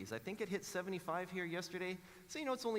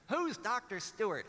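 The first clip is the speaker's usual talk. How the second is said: put-on high, loud child's query; daughter's loud question; 7 semitones higher, 5 dB louder than usual. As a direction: ask it high and loud, like a kid.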